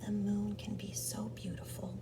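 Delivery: soft, sighing half-whisper. Acted. Gerald gazing up at the moon, whispering with a sigh. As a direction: murmur it softly on a sigh. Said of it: "he whispered with a sigh".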